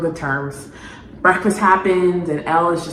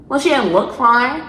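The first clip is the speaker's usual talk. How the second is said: higher, whiny mock of the boyfriend's line; mocking Mike; 6 semitones higher than usual. Vlogger mocking the boyfriend's line, whiny mock voice. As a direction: sneer it back at him in a whiny put-on voice.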